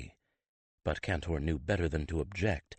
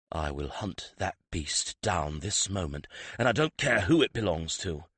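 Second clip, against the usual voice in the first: through clenched teeth. Acted. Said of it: "he said between clenched teeth".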